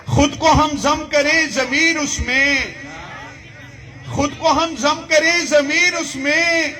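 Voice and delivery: measured, projected mushaira recitation; poetry recital. Acted. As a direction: declaim the verse to the crowd, stretching the line ends. Recites Urdu poetry to audience.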